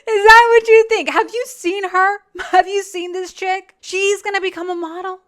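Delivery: high, loud, laughing disbelief; incredulous laughing. Real, not acted. Host mocking her plan to become a model, laughing incredulity. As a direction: crack up while you ask, voice climbing.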